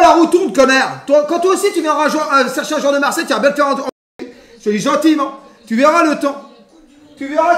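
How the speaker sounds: needling, worked-up warning; taunting threat. Real, not acted. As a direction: taunt the absent rival, promising payback. Taunts a rival club as "connard.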